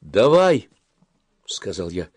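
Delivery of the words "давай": raised, louder eager reply; eager agreement. A narrator's reading. Boy agrees to his friend's plan, eager. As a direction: agree keenly, pitch up.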